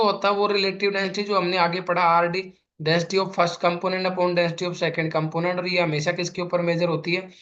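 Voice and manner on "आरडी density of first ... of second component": density of one liquid upon density of second liquid, each word stretched out; slow dictation. Shown as a demonstration. Teacher to students copying the formula, slow dictation. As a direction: dictate the formula slowly for notes.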